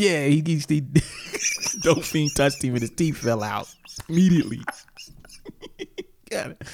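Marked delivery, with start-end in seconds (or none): 0.0-4.6 whisper. Pretend. Whispered joke aside.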